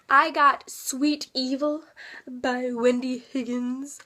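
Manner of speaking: slow, oddly drawn-out words; talking weird. Real, not acted. Vlogger announcing her new book, talking weird. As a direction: stretch the title and author strangely. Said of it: "I don't know why I'm talking weird".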